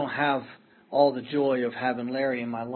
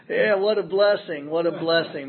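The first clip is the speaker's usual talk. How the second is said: laughing; 6 semitones higher, 8 dB louder than usual. Real, not acted. Moved laughing recollection.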